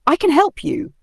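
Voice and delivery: high squeaky eager offer; small voice, big courage; tiny mouse. A narrator's reading. Mouse offers to help the lion, high squeaky voice.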